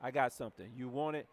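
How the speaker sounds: just tell them, no asking; confident direct tone. Shown as a demonstration. Coach demonstrating a confident invite to a prospect, loud and sure. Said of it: "That is my tone".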